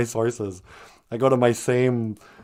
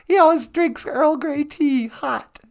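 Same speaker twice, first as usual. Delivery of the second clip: higher, slow, grandly enunciated Captain Picard; Picard impression. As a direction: play the starship captain with ceremony. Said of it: "Kinda like, uh, Picard".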